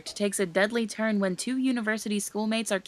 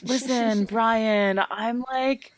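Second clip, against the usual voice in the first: asking someone out; slower than usual. Retold or imitated. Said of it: "I could be like".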